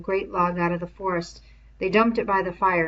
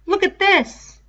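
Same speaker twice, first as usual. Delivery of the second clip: put-on Robert's boyish voice; 12 semitones higher, 9 dB louder, slower than usual. A narrator's reading. Robert shows the lever.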